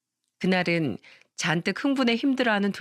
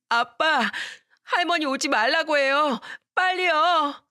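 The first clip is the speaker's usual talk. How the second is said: 높은 아이 목소리로 울부짖듯; 아빠를 찾으며 점점 다급해지는 아이; panicking little boy; 7 semitones higher than usual. Acted. Panicking boy calling his dad. (아빠를 부르는 겁먹은 어린 아들, 높고 다급하게)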